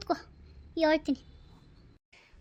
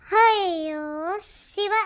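slow, louder gasp of fright; startled; 4 dB louder, much slower than usual. Acted. Neighbour startled by a shout behind her, slow louder cry. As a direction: jump at the sudden call.

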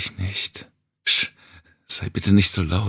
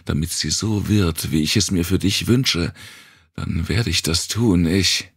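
higher, pressing vow; impassioned plea; 4 semitones higher than usual. Acted. Wanda vows to the girl she'll burn the world. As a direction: pour out every promise urgently.

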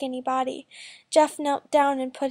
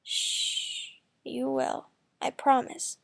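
hushed shh, then softer comfort; soft reassuring smile; 5 dB quieter, much slower than usual. A narrator's reading. Jeff comforting upset Scarlett, softly reassuring. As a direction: gently soothe her with a smile. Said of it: "he smiled".

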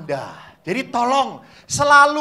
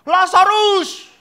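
long, much higher and louder call; slow shout; 9 semitones higher, 10 dB louder, much slower than usual. Retold or imitated. Catechist as Jesus yells up the tree, slow. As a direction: stretch the name out as a yell. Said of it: "Yesus berteriak".

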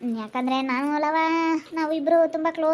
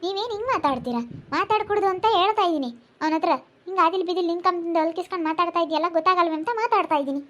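pitched-up, affronted protest; indignant scolding; 3 semitones higher than usual. Acted. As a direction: take offence and tell them off. Acted quarrel, indignant scolding. (ಸಿಡುಕಿನಿಂದ ಬೈಯುವ ಧ್ವನಿ)

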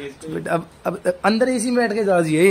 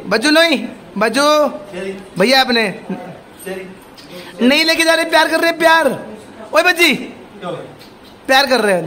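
high pet-talk; 5 semitones higher than usual. Real, not acted. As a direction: gently scold the monkey in a raised cooing voice. Soothing monkey, calling by name. (पालतू से ऊँची, दुलार भरी आवाज़)

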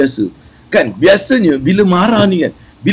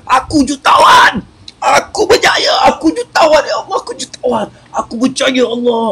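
mock angry affirmation; 9 semitones higher than usual. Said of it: "Bila kau marah, kau cakap".

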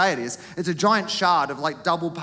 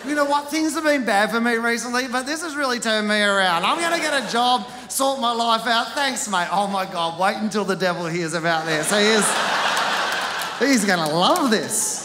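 grateful relief; 4 semitones higher than usual. Retold or imitated. Imagined attacker gratefully turns around.

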